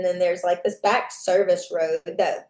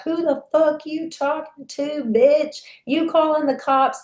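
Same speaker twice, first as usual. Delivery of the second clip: high, harsh imitated yell at her; a retold furious threat; angry man's voice; 8 semitones higher than usual. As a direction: voice the attacker snarling at her. Attacker's quote as he gets out.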